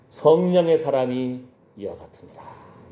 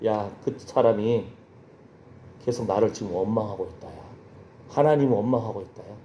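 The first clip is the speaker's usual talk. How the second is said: voice of God; 6 semitones lower, 5 dB quieter than usual. Retold or imitated. God speaking inside the ambassador's heart, voice of God. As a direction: speak low and measured, as God confiding. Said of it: "마음속에 하나님이 계속 음성을 주시는".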